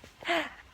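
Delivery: a hammed-up mock gasp; fake gasp. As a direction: gasp like you're faking surprise. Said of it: "acting really fake".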